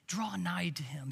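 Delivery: hushed whispered urging; soft unvoiced plea. Real, not acted. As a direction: lean in and whisper it. Preacher urging closeness to God.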